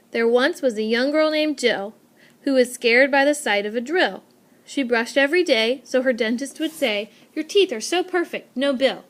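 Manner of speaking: bouncy limerick read aloud; rhythmic limerick reading. Shown as a demonstration. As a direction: read it to show off the beat. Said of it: "very distinct meter when you read it out loud".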